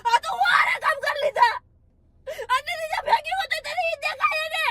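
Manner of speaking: tearful angry yelling; hurt, crying outburst; crying shout. Real, not acted. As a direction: shout it through sobs. Girlfriend yelling while crying.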